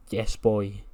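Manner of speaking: understated, downcast catchphrase; a glum little call from far away; mock sad. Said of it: "We just hear a sad".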